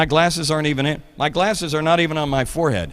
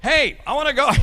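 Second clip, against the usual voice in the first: put-on eager kid at the fair; 6 semitones higher than usual. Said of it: "I'm like a guy, I'm like".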